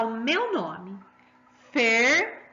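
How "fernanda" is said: teacher's demo of Fernanda with a loud, long middle syllable; stress on middle syllable. Shown as a demonstration. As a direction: break Fernanda into three beats and push the NAN. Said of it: "Presta atenção na sílaba que a professora fala mais alto".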